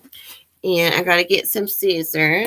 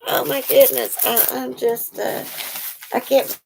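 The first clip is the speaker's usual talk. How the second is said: amazed; 6 semitones higher than usual. Real, not acted. Praising Shirley's handmade shells, higher amazed gushing. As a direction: marvel at it.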